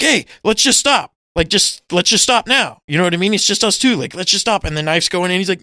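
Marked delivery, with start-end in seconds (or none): 0.0-3.3 mock pleading. Retelling the German pleading in fight. 3.3-3.9 mock pleading. Continues the German's plea. 4.2-4.6 mock pleading. Continues the German's plea.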